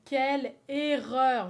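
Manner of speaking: loud and slow, drawn out; loud slow lament. Shown as a demonstration. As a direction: wail it out slowly.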